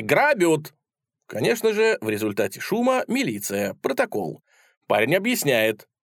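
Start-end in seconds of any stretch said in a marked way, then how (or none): 0.0-0.7 high, raised alarm cry; cry of robbery. A narrator's reading. Sellers raise alarm as lad leaves, crying out. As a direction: call out the robbery, pitched up. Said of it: "кричат продавцы".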